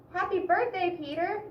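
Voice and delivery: high, bright birthday greeting; cheerful greeting. A narrator's reading. Amy arriving at the party, cheerfully greeting Peter. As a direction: greet him happily. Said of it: "said Amy".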